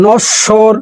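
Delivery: নশ্বর said "nosh-shor", doubled sh; pronunciation demo. Shown as a demonstration. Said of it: "নশ্বর একটু হালকা একটু উচ্চারণ আছে".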